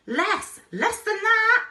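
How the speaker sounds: high, very loud yell; frantic yelled correction. A narrator's reading. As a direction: shriek the warning over the wind. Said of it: "yelled the explorer".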